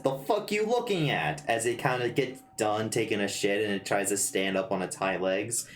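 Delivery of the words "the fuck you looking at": tough creature voice. Acted. GM voices the Pokemon's aura.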